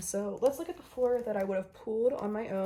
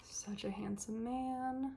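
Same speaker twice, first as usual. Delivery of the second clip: whispered admiration; 3 semitones higher, 5 dB quieter, slower than usual. Real, not acted. Admiring photocard.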